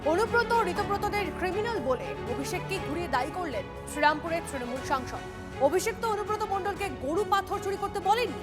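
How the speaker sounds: punchy scripted headline read; news headline voice-over. A narrator's reading. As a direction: announce the headlines with dramatic lift.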